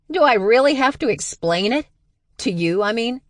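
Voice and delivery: high, loud exasperated retort; sisterly bickering. Acted. Stevie and Max bickering, loud exasperated. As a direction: snap back in irritation.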